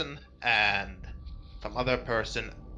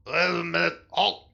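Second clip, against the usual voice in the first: shouting; 6 semitones higher, 5 dB louder than usual. Acted. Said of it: "the guy goes".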